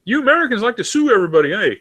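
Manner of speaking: high, fast teasing local with a tag eh; mock Kiwi jab. Locals ribbing the American about suing, fast and high. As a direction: rattle off the jab like a cheeky New Zealander. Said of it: "That's the joke".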